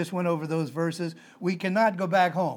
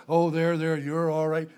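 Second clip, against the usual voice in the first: there-there comfort. Retold or imitated. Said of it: "they expect you to say".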